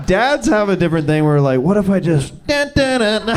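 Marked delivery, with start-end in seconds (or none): 1.6-3.4 hammed-up dad doing dramatic dun dun; mock dad. Dad teasing the family with a mock suspense sound. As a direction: play the goofy dad building suspense.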